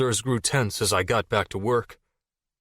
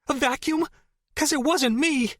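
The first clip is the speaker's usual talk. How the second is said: sarcastic. Acted. Jason mocking retort.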